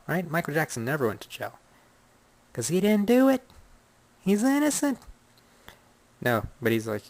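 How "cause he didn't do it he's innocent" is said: high indignant defense. Real, not acted. Insistent defense of the singer.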